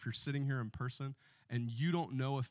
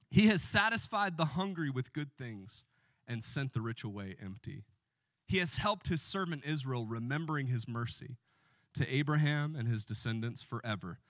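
scripture reading; 4 dB louder than usual. Acted. Pastor reading Mary's song to church, solemn. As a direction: read it out like a psalm.

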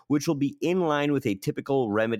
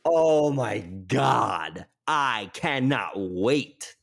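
giddy anticipation; much slower than usual. Real, not acted. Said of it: "gushing anticipation".

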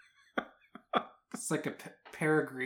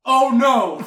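high loud mock cry of dismay, laughing; teasing girlfriend downstairs with fake alarm; 9 semitones higher, 12 dB louder than usual. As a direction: ham up a fake accident. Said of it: "I go".

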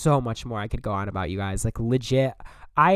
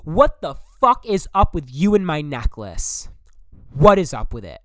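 yell; 4 semitones higher, 5 dB louder than usual. Retold or imitated. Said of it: "I, like, yelled to him".

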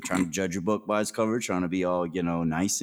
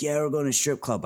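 put-on drunk and excited; 8 semitones higher, faster than usual. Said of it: "like, all drunk and excited".

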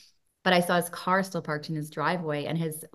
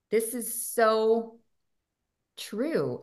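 ordinary delivery

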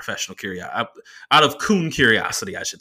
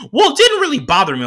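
much higher, louder nerdy driver voice; the driver's voice; 8 dB louder than usual. Retold or imitated. Comedian doing the driver's voice for the crowd, high and squeaky.

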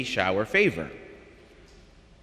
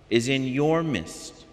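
your leaned on, slow and weighty; stress on your; slower than usual. Shown as a demonstration. Priest stressing the reading's words to the congregation, your weighted. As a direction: dwell on the word your in is in your midst. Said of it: "I emphasize the word "you".

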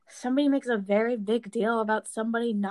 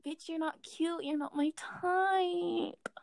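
higher, drawn-out sassy putdown; dismissive comeback; 5 semitones higher, 5 dB quieter, much slower than usual. Retold or imitated. Lesbian brushing off a conceited straight girl, dismissive. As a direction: drag out the last word, scornful.

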